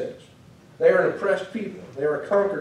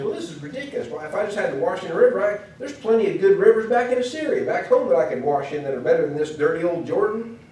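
huffy excuses; 2 semitones higher than usual. Acted. Naaman grumbles to himself about the dirty Jordan, huffy. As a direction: talk himself out of it with rivers back home.

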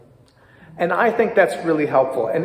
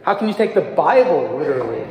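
"the" oddly stressed, like THE Bible. Shown as a demonstration. A teacher testing emphasis on students, stress on the. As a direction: punch the little word "the". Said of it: "emphasize different things".

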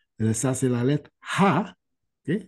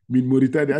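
put-on Arabic accent; faster than usual. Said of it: "Je lui ai dit, From Mauritanie".

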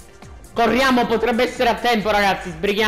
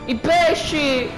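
mock mourning; 4 semitones higher, much slower than usual. Mourning the dead fish.

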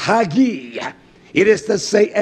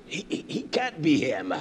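soft, low, furtive doubters' murmur; imitated whispering; 3 semitones lower, 10 dB quieter than usual. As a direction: mimic people whispering their doubt behind his back. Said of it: "They were whispering".

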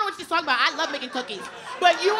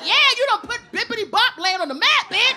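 mock cheering; 5 semitones higher, 6 dB louder than usual. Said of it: "Be like".

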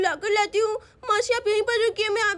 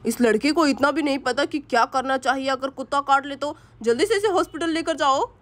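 scolding father; 5 semitones lower than usual. Acted. Father scolding Ram to take Siya to hospital, lower scolding. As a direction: scold the useless boy.

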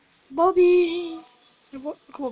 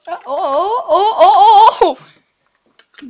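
laughing loudly through oh, oh; real laughter; 4 semitones higher, 9 dB louder, much slower than usual. Real, not acted. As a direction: burst out laughing while tugging. Tug of war with dog.

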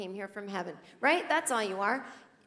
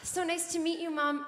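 higher, lightly played baby manners; a hint of a well-mannered infant; polite newborn; 7 semitones higher than usual. Newborn greeting mom at a cocktail party, light baby voice. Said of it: "soiree going".

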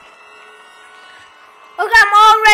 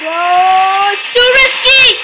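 yelling while running away; 6 dB louder, slower than usual. Real, not acted. Refusing to help teammate.

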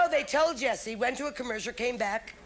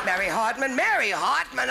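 Mary Hartman call; 4 dB louder than usual. Shown as a demonstration. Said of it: "like this".

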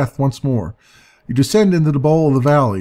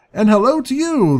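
higher, chirpy little voice; chirping creature; 10 semitones higher than usual. Acted. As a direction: chirp the greeting like a tiny sprite.

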